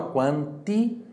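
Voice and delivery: "quanti" drawn out slowly with a clean T; pure T. Shown as a demonstration. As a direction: stretch "quanti" and keep the T pure. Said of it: "atenção para a pronúncia pura do T aqui".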